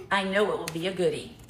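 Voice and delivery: low, measured card-reading voice; reading a note aloud. Real, not acted. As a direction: read the gift poem out to the room. Reads a gift note aloud.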